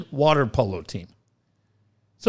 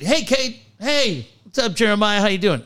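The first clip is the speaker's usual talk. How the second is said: higher-pitched friendly call-out; imitated kid's greeting yell; 4 semitones higher than usual. Kid yelling at Cade, imitated greeting. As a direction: call out to a pal, lightly mimicked. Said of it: "the kid yells at Cade".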